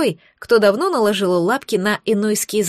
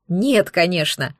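scoffing; 4 semitones lower, slower than usual. Acted. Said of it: "фыркнула".

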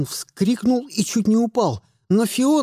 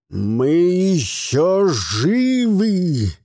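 proclaiming; much slower than usual. A narrator's reading. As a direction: declare it like an old wizard rallying troops. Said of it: "провозгласил он". (медленно и торжественно провозглашает)

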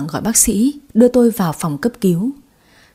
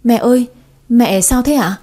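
alarmed; 3 semitones higher, 3 dB louder than usual. Acted. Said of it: "Cái Quỳnh hốt hoảng hỏi tôi".

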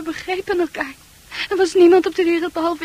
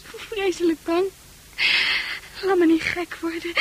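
tearful plea. Acted. Fran begging Arn for help, tearful. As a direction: beg through tears.

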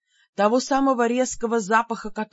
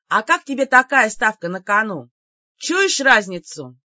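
taunting; 6 dB louder than usual. Acted. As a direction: dangle the bait with swagger. Heroine taunts demon with stakes.

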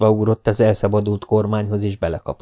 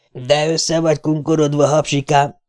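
mocking call; 6 semitones higher than usual. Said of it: "kiáltott oda a nagyhajú".

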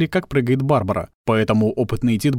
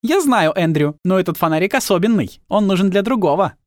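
Tilly voice; 7 semitones higher than usual. Acted. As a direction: chirp at him, pitched up.

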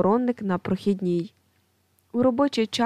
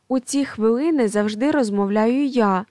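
exclaiming; 3 dB louder than usual. Acted. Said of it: "вигукує третій стіл".

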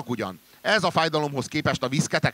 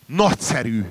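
delighted exclamation; 4 dB louder than usual. Acted. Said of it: "kiáltottam".

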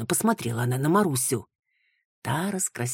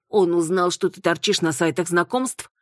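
shocked gasp, louder and higher; 4 semitones higher, 4 dB louder than usual. Acted. Klara reacting to news of the marriage, aghast. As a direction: blurt it out in shock. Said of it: "ахнула Клара Сергеевна".

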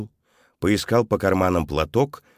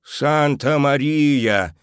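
slow, gasping Santa Maria; gasped exclamation; 8 semitones higher, 4 dB louder, much slower than usual. A narrator's reading. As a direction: gasp it out in wonder. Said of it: "ахнул Алессандро".

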